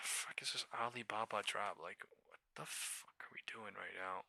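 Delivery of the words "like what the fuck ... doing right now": soft unvoiced whisper; whispered despair. Real, not acted. Trapped trader whispering in despair. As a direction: whisper it in disbelief.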